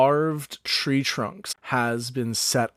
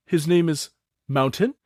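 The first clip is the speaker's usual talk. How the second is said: a touch higher, proud introduction; higher old goblin naming his nephew; elder goblin Thook; 4 semitones higher than usual. Acted. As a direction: present the nephew with goblin pride.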